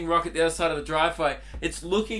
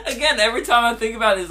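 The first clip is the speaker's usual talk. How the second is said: quick, laughing through the words; can't hold back the giggles; real laughter breaking into speech; laughing while talking; 6 semitones higher, 5 dB louder, faster than usual. Real, not acted. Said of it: "I can't stop laughing".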